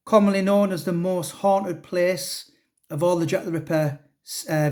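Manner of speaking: ordinary delivery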